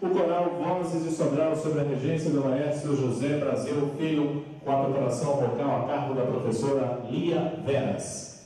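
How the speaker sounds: fast, lifted emcee voice; grand entrance announcement. Acted. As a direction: present the choir like a master of ceremonies.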